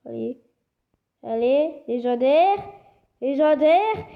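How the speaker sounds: loud rising chant of hope; will the roll to land legendary; excited urging. Real, not acted. Gamer cheering his spin on toward legendary, loud and rising.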